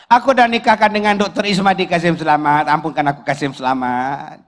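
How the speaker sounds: rushed confession sinking into a low plea; confessing mother-in-law. Acted. Mother-in-law confesses marriage to Kasim, mock-pleading. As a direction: act a pleading confession, dropping away at the end.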